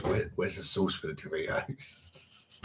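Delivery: soft slow whisper in the ear. Retold or imitated. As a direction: breathe it quietly like a secret. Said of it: "You heard those whisper in my ears".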